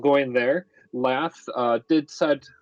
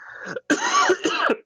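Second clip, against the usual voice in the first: coughing fit. Real, not acted. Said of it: "Bug came back".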